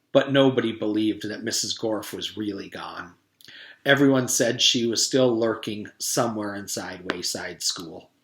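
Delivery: steady read-aloud storytelling voice; story narration. A narrator's reading. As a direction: read it like a chapter book. Reads the chapter aloud.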